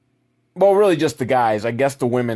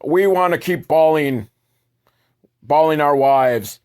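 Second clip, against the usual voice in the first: caveman men; 4 semitones higher, 4 dB louder, slower than usual. Acted. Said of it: "They're like".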